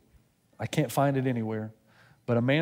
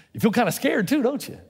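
teasing God; 9 semitones higher, 3 dB louder than usual. Retold or imitated.

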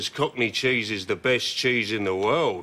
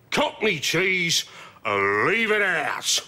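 surprised Cockney; 5 semitones higher, slower than usual. Retold or imitated. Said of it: "it surprises him".

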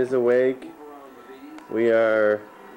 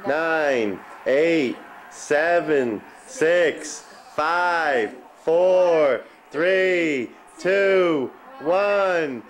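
new year countdown crowd; 5 semitones higher, much slower than usual. Real, not acted. Counting down to midnight.

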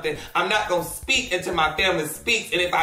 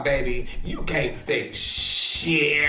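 sassy put-down; 5 semitones lower, slower than usual. Retold or imitated. Telling King Sid off with slow sass. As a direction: lower and slow, drawn-out sassy dismissal. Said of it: "I'm like".

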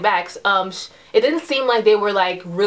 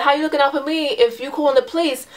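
higher, indignant challenge; mildly heated question, pitched up; retold arguing; 5 semitones higher than usual. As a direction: imitate the man arguing back. Retold street argument.

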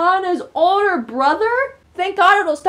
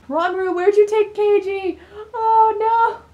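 higher, near tears; upset; 5 semitones higher than usual. Real, not acted. Gamer pleads with Ranmaru over the taken brother, tearful. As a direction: plead with the character, close to crying. Distressed at the screen.

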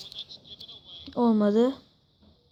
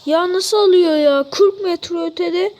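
amazed exclaim; 4 semitones higher, 3 dB louder than usual. Real, not acted. Amazed at long-range goal.

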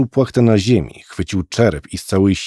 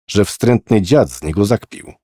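ordinary delivery, nothing marked

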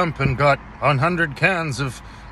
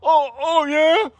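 squeaky high coo at a cute animal; 4 dB louder than usual. Real, not acted. Talking to a little sea otter, high cooing baby voice. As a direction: coo up high like greeting a pet.

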